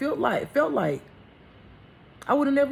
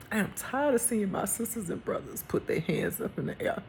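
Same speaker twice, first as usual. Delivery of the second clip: weary lament; 6 dB quieter than usual. Real, not acted. Speaker laments injustice in this world, weary and grave. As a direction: wearily list each wrong, letting it sit.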